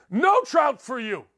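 host refusing Trout, mock soup Nazi shout; soup Nazi impression. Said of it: "I'm like the soup Nazi here".

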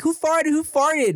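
put-on high-pitched disgusted kids' questioning; mock classroom outcry. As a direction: squeal it like grossed-out classmates. Acted classmates outcry, repeated.

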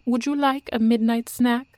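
high, bright hostess voice; sweet hostess. A narrator's reading. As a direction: offer it sweetly. Cheerful hostess offers snack.

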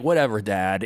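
put-on bored eye-rolling teen. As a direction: say it with an eye roll. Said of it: "his daughters are just like".

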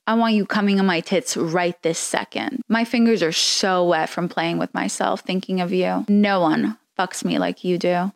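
a lightly sultry read; hint of a seductive purr, barely shifted; reading sexts in a mild mock sexy voice. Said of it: "Should I say this in a sexy voice? Okay, yeah".

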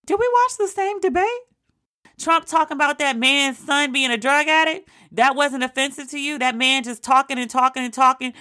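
high, stunned disbelief; can you believe this man; incredulous. Real, not acted. Grilling a Trump-voting undecided, high incredulous disbelief.

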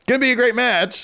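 high, sarcastic "great match"; mock the booking with fake cheer; sarcastic mock line. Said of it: "mocking AEW's line".

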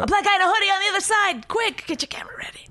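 high, fast urgent spotting; quick, then drop to a whisper; excited hushed alert. Pretend. Mock cop-spotting alert.

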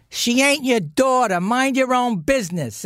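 imitating his mother telling off her husband; mother snapping at stepfather. Son imitating angry mother at the table, mock angry. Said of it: "she goes".

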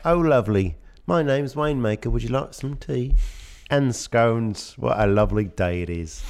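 put-on high, prissy British accent; posh British accent. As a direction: play it as a dainty English gent. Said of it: "I think he actually talks like this".

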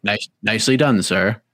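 mock polite, unruffled composure; courteous, as if nothing hurts; deadpan. Imitating injured fighter praising his opponent, deadpan. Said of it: "straight faced the whole thing".

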